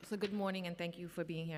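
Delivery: slightly scratchy, rough throat. Real, not acted. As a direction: speak through a scratchy throat. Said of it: "I have a little scratchy voice".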